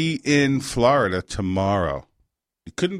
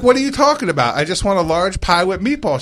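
mock-exasperated, higher-pitched protest; 3 semitones higher than usual. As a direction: retell a baffled customer arguing back. Arguing with pizza order taker.

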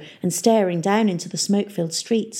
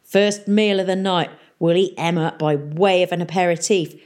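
satisfied pirate mayor. Acted. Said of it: "sounding satisfied".

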